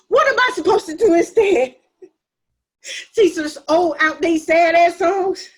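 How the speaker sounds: exasperated mockery. Mocking sister, exasperated.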